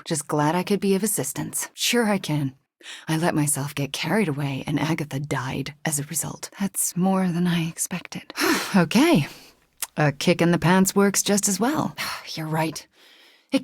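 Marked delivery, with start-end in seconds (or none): 3.1-8.3 hushed, remorseful whisper; guilty whisper. Acted. Admitting guilt over her mentor's death, whispered. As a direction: confess it under your breath.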